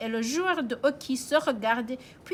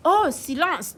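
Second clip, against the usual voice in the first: postwoman hushing; 6 semitones higher, 4 dB louder than usual. Acted. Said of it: "dit la postière".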